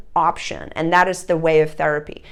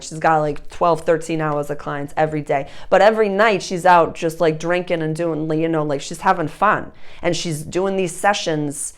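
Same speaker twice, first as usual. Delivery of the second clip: lower-pitched imitated Boston accent; 4 semitones lower than usual. Restaurant gal talking about her therapist friend, in a Boston accent. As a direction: gossip like a Bostonian, accent laid on thick. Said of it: "such a thick Boston accent".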